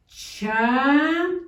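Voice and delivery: "Charro" with a long trilled rr; rolled double r. Shown as a demonstration. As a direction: roll the rr in "Charro" hard. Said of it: "con dos r".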